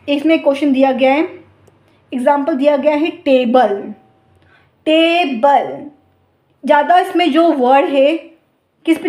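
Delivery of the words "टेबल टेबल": टेबल stretched slowly, first part TA held long; stress on TABLE. Shown as a demonstration. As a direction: draw out टेबल slowly with weight on ट. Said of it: "किस word को हम ज़्यादा longer और pronounce और louder". (टेबल को धीरे और ज़ोर से खींचकर बोलो)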